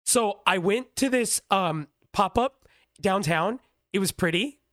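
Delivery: TikToker delivery. Shown as a demonstration. Podcaster demoing TikTok voice for friends, slow lilting influencer read. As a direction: drag it out like a vlog voiceover. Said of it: "see the way that I'm talking now".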